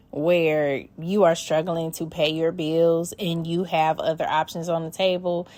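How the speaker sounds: ordinary talk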